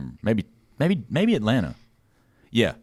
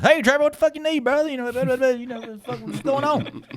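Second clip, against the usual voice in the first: Texan hick voice. Retold or imitated. Texas colorist greeting Trevor in a mock Texan voice. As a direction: ham up a good-old-boy Texan. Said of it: "Roy Peters comes in".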